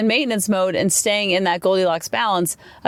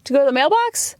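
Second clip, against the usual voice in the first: put-on sweet toddler voice; 6 semitones higher than usual. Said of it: "they'd be like".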